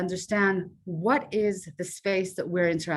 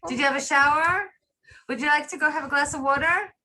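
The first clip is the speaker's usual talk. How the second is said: bad acting; 9 semitones higher than usual. Shown as a demonstration. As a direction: talk down to her like a child. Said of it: "Please excuse my acting".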